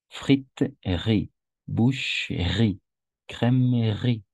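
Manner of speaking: friterie and boucherie slowly, each e sounded. Shown as a demonstration. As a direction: boucherie as bou-che-rie, slow. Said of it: "nos vamos de la consonante anterior". (friterie y boucherie despacio, marcando la e)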